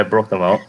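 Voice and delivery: "broke them out" run together as "broke-da-mout"; easy local "broke them out", th turned to d; local pidgin pronunciation. Shown as a demonstration. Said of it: "Can you help me say that".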